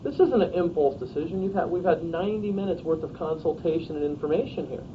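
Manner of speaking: measured, non-threatening sales close; soft, professional pitch. Shown as a demonstration. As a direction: talk the client through it gently, no pressure. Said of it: "articulate it in a soft and professional".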